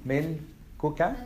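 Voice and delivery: slow, drawn-out Arabic milkuka; teacher modelling milkuka slowly; slow model word. Shown as a demonstration. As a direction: say milkuka slowly, each syllable clear. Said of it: "The first one is going to be milkuka".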